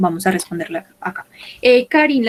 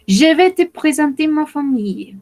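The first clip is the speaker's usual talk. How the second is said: higher model take; 6 semitones higher than usual. Shown as a demonstration. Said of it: "first take, higher".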